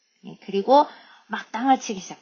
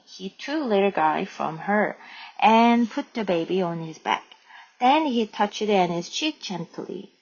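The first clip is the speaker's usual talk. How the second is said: slow, measured read-aloud; story narration; much slower than usual. A narrator's reading. Teacher reads the goodbye chapter to learners, slow narration. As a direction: read the chapter out slowly, phrase by phrase.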